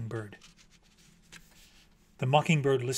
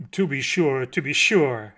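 grandly obliging; 7 dB louder than usual. A narrator's reading. Pompous mockingbird agrees to listen.

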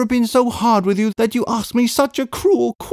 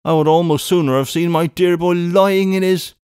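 high, plaintive lament; mourning; 7 semitones higher than usual. A narrator's reading. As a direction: mourn over a wayward brother in a raised voice. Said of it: "mourned Miss Pross".

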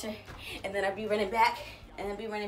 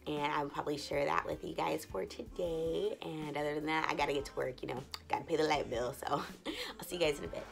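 softer, hushed morning talk to the camera; keeping it quiet; 3 semitones lower, 6 dB quieter than usual. Real, not acted. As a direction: keep your voice down so nobody wakes. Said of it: "so I'm trying not to be too loud".

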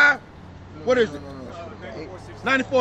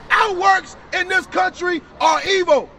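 forceful, emphatic preaching; street preaching; 3 semitones higher, slower than usual. Real, not acted. Preacher to brother about Israel's promises, forceful preaching.

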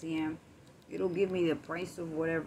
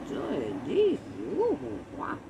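loud, rising geez and ooh; stunned exclamation; 3 dB louder, slower than usual. Retold or imitated. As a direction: reel at the total. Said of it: "I said".

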